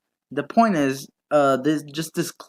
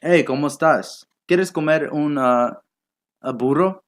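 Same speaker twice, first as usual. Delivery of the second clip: mock Spanish. Shown as a demonstration. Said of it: "let me speak Spanish".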